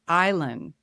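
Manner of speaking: "Island" pronounced EYE-lun, correcting gently; corrected pronunciation. Shown as a demonstration. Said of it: "His name is".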